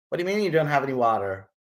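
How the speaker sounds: quick, put-on American accent. Customer challenging the waiter about water, quick mock American accent. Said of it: "my American accent is brilliant".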